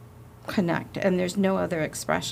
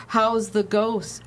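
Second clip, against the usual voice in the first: mocking; much slower than usual. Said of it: "or mocking".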